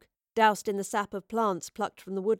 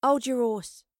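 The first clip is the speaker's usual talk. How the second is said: mildly irritated order; restrained, tense command; through gritted teeth; 3 semitones higher, 4 dB louder than usual. A narrator's reading. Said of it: "Astrid ordered through gritted teeth".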